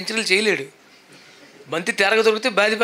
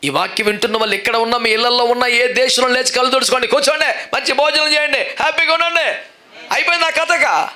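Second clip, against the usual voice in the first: louder and higher, fervent preaching, building to shouts; preaching at full force; 6 semitones higher, 3 dB louder than usual. Acted. Preacher calling out to listeners everywhere, fervent and loud. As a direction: preach it out, swelling with each line.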